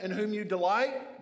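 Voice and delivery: mildly sarcastic, lifting at the end; a touch of mocking question. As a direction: quote it with pointed irony, rising on delight. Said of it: "more sarcasm".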